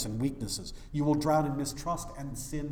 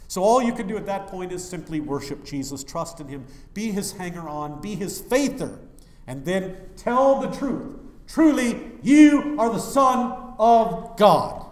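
higher and louder, slowing to a proclaimed confession; preaching at full force; 6 semitones higher, 11 dB louder than usual. Acted. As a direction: build and proclaim to the congregation. Preaching climax of worship.

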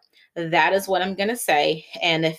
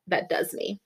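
whisper; 6 dB quieter than usual. Real, not acted. Trailing whisper at end.

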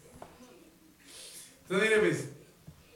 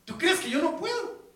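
higher, louder, fired-up challenge; lively retold Jesus voice, higher and louder; Jesus challenging; 7 semitones higher, 4 dB louder than usual. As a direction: preach it as a bold rebuke of doubt. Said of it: "Le dice".

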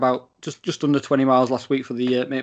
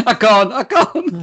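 high-pitched mock Scouse; Scouse accent; 8 semitones higher, 6 dB louder, slower than usual. Shown as a demonstration. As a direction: squeal a stock Scouse catchphrase.

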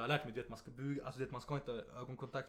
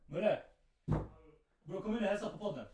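calling out; 7 semitones higher, 3 dB louder than usual. Real, not acted. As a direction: call out the name loud and higher. Calling brother into room.

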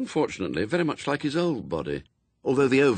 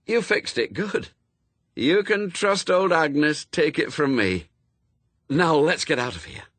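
raised, eager medium's voice; a cheery spirit speaking through her; brisk old Agnes voice; 6 semitones higher than usual. Acted. Medium channelling Agnes to Newt, cheerily. Madame Tracy as Agnes, pleased.

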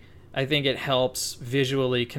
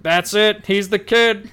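excited; 7 semitones higher, 6 dB louder, slower than usual. Retold or imitated. Casting people excited by audition.

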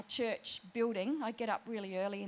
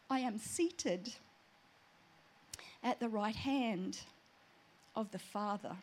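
slow, measured, with long pauses; solemn divine reply; 4 dB quieter than usual. Retold or imitated. The Lord answering her in prayer, solemn and slow. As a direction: let each phrase land with weight. God's reply, retold with awe.

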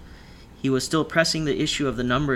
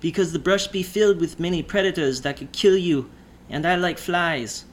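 higher, slow and ominous; menacing drawl; 5 semitones higher, 3 dB louder than usual. A narrator's reading. Driver warning of deadly predators with a slow menacing drawl. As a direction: drawl it out like a threat. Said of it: "the drawl speak only making the minuous feel".

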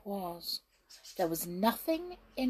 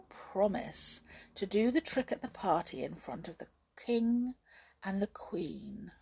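lightly voiced scheming witch; a hint of a conspiring witch, half whispered; sly witch; 3 semitones higher than usual.

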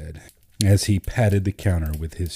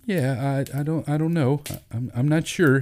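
hesitant, tripping over his words, pitched up; stammering; 8 semitones higher than usual. A narrator's reading. Terry unsure at the library desk, stammering nervously. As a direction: falter and restart each phrase. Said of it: "he stammered".

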